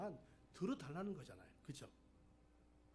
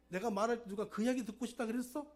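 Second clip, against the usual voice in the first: higher-pitched mock-angry retort; retold anger; 5 semitones higher, 3 dB louder than usual. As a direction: act out a wife's mild indignant comeback. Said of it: "막 화를 내는 거예요". (화내는 아내를 가볍게 흉내 내며)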